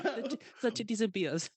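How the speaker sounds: high, laughing German echo; mock German accent. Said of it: "in the German accent".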